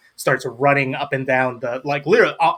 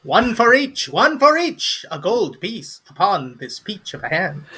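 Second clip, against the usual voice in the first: eager gnome; 7 semitones higher than usual. Acted. Gnome collecting gold from each player, high and eager. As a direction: chant it high like a little huckster.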